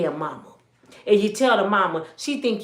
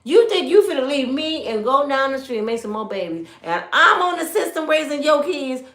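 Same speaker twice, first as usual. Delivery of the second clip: indignant wife; 4 semitones higher than usual. Retold or imitated. Voicing an angry old wife.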